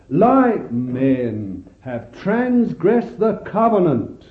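slow, sorrowful reading of the line; sobbing lament. Acted. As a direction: read it as God's big sob. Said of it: "this is the big sob in his heart".

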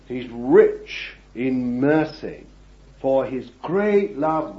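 slow, emphatic reading; scripture reading. Real, not acted. Preacher reading Ephesians verse four, slow and emphatic. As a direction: let the mercy land slowly. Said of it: "and it says".

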